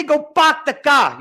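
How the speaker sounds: "Go park the car." with open flat Joburg "a" in park and car; flat Joburg accent. Shown as a demonstration. Teacher showing class how Joburg says "Go park the car.". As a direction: say it the flat Johannesburg way, a high demo. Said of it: "Joburg is flat".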